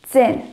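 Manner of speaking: zehn starting with a sharp "ts"; teaching pronunciation. Shown as a demonstration. Teacher models zehn with the ts sound. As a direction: hit the tz in zehn. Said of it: "fica esse som de tz".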